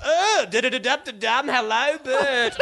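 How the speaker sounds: lightly voiced camp old showman; John Michael Housen voice. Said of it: "my John Michael Housen impersonation".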